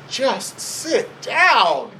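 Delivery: high, very drawn-out, comic command; mock-loving order. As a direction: stretch each word out for a laugh. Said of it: "very lovingly says".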